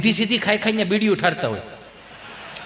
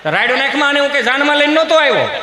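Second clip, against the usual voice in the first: raised-pitch mock outburst; angry husband; 6 semitones higher, 3 dB louder than usual. Husband snaps back at wife, heated retort.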